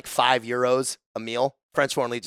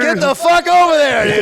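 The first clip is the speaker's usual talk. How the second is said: higher, louder barked order; retold yell; 13 semitones higher, 9 dB louder than usual. Veteran yelling at clueless recruits, loud bark. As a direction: bark the order across the field.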